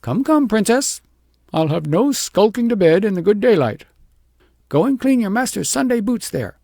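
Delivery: high, loud commanding scold; sharp cry. A narrator's reading. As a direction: order her out of bed loudly. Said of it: "But the shepherdess cried".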